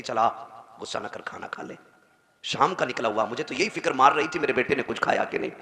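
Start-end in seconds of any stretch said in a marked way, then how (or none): 0.0-1.8 gentle mother. Retold or imitated. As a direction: soothe the angry son. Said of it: "फिर वो कहती". (धीमी, प्यार भरी माँ की आवाज़)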